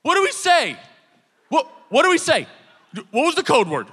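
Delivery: high, loud panicked shouting; hammed-up panic yell. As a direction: yell frantically through the door. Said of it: "yelling at each other at the door".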